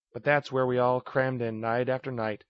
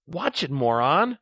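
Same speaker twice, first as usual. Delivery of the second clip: slow, louder irritated snap; angry retort, a bit higher and louder; snapping; 4 semitones higher, 5 dB louder, slower than usual. Acted. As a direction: bite his head off. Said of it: "she snapped".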